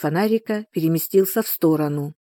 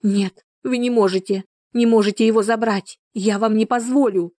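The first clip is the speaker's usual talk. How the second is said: desperate shout; 5 semitones higher than usual. Acted. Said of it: "Снова закричала мать".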